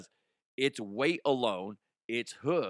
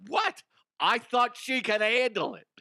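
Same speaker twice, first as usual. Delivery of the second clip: much higher, a little louder, playing dumb; mock clueless rider; 10 semitones higher, 5 dB louder than usual.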